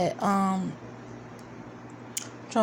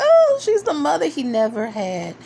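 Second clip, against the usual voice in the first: gushing; 2 semitones higher, 4 dB louder than usual. Retold or imitated. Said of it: "I was like".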